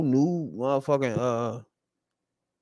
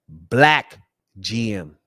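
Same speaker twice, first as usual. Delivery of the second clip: BLACK punched louder, then a beat before G M; emphatic repeat; 6 semitones lower, 5 dB louder, much slower than usual. Real, not acted. Fan repeating that the Bears have a black GM, emphatic. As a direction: repeat it with hard weight on black. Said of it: "I repeat".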